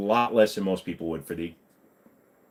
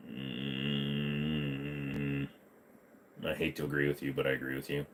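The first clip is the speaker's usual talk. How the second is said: grudging agreement; 10 semitones lower, 14 dB quieter, slower than usual. Pretend. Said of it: "reluctant low agreement".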